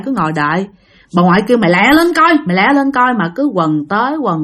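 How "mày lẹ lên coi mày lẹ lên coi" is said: impatient hurrying. Retold or imitated. Grandmother rushing a dawdling child, impatient. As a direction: hurry someone along.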